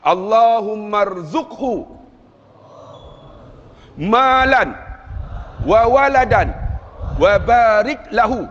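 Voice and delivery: slow phrases with long pauses between; call-and-repeat recitation. Shown as a demonstration. Preacher leading listeners in prayer, slow phrase-by-phrase recitation. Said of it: "Boleh ikut saya tak?".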